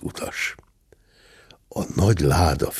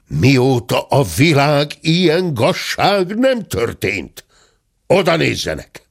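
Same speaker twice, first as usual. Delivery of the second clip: raised, slow outraged complaint; indignant outrage; 6 semitones higher, 3 dB louder than usual. Acted. The squire to the staff, outraged. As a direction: fume at the injustice.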